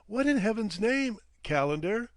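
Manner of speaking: put-on young man shocked at the grim landing; alarmed question. A narrator's reading. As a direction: demand an answer in dismay.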